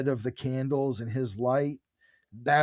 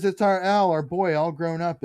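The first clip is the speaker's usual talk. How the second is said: louder, higher burst of proud joy; gushing proud mother; 3 semitones higher, 5 dB louder than usual. Retold or imitated. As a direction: gush like a doting mother. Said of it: "And she says".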